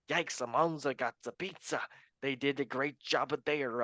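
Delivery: light mock-Italian accent; a hint of put-on Italian. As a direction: slip briefly into a joke Italian accent. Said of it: "my Italian accent".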